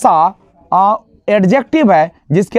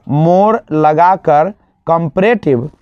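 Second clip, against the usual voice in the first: slow answer; 3 semitones lower, slower than usual. Shown as a demonstration. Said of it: "more लगाकर क्या बनाइएगा".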